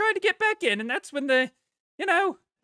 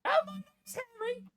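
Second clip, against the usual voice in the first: hearty innkeeper; 8 semitones higher, 6 dB quieter than usual. Acted. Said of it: "your innkeeper voice".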